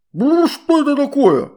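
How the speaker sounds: high, loud gurgling water-spirit voice. A narrator's reading. River spirit scolding the children, high gurgling voice. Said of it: "раздался булькающий голос".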